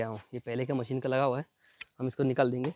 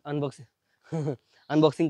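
laughing at stumble; slower than usual. Real, not acted. Laughs over his stumble.

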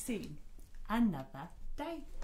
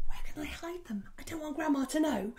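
worried Anansi; 7 semitones higher, faster than usual. Acted. Anansi worrying, quoted.

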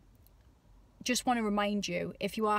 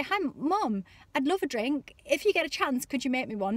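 upbeat; 4 semitones higher than usual. Shown as a demonstration. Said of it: "all upbeat?".

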